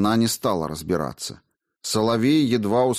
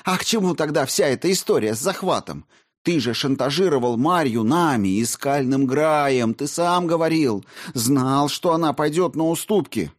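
high, raised angry voice; heated accusation; 7 semitones higher than usual. A narrator's reading. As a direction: hammer the charge at him. Olga furious accusation.

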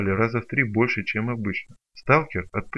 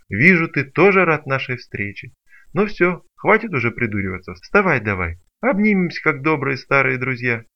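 loud, higher mock-friendly teasing; mocking cheer; 3 semitones higher, 6 dB louder than usual. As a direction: tease the fallen foe with fake warmth. Mocking hunter to Izya. (насмешливо-радушно, громче)

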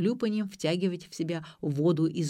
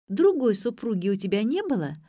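higher, coaxing question; cooing; 5 semitones higher, 5 dB louder than usual. A narrator's reading. Daughter prodding her father about another wife, cooing. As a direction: coo it leadingly. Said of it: "проворковала Ксения".

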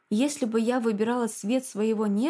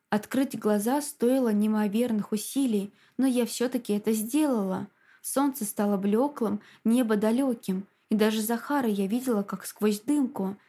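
ordinary delivery

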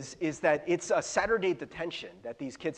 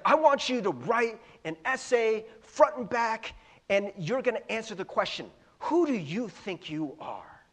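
sneering; 4 semitones higher than usual. Retold or imitated. Vice principal assigning the detention essay, mock sneering. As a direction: sneer it down at the kids like an insulting principal. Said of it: "he says it in this really kind of sneering way".

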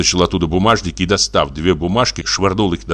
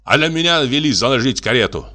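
higher-pitched imperious master; agitated order; 6 semitones higher than usual. A narrator's reading. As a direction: order the servant in irritation. Master ordering his servant, worked up. (раздражённый приказ повышенным тоном)

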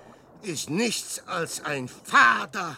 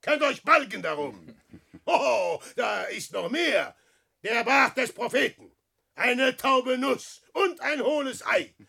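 bitter mocking showman; 3 semitones higher, 3 dB louder than usual. Peer verhöhnt sich selbst.

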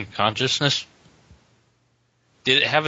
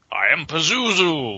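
demon voice; 3 semitones higher, slower than usual. Acted. Voicing the demon face.

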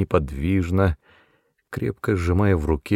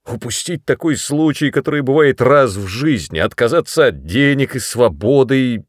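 loud, high, rising fury; angry scolding; 6 semitones higher, 6 dB louder than usual. A narrator's reading. Brother scolds sister for wanting him to stay, furious. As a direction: berate her for being foolish.

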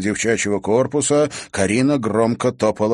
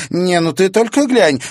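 amused; 11 semitones higher, 9 dB louder than usual. Acted. Girls laughing at window.

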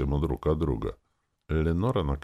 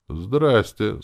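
friendly greeting, pitched up and a little louder; good-natured; 7 semitones higher, 6 dB louder than usual. A narrator's reading. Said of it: "сказал я добродушно".

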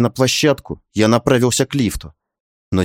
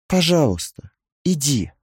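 tender request; 5 semitones higher than usual. A narrator's reading. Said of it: "с удивившей меня нежностью в голосе попросила мать". (нежно, тихо попросить)

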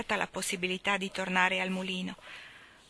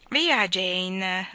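Mrs Pallet, soothing; 4 dB louder than usual. Acted. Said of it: "disse missus Pallet".

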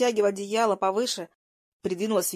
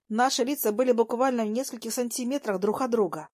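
ordinary delivery

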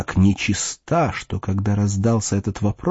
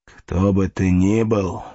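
angry exclaim; slower than usual. Acted. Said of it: "воскликнул".

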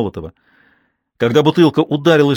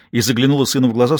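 ordinary delivery, nothing marked

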